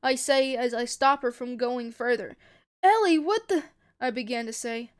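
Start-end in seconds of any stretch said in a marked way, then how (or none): 2.8-3.6 raised, louder cry of disbelief; shocked exclamation. A narrator's reading. Ray reacting to Ellie stabbing a soldier, shocked. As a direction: blurt it out, appalled.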